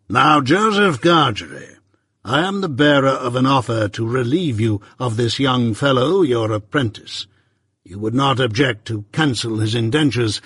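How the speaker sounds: measured, stern lawyer, lightly voiced; Jaggers.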